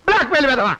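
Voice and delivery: exasperated outburst with a falling end; angry insult. Acted. Victim cursing the blackmailer, angry insult. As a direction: fling the insult out. Same insult flung out harder.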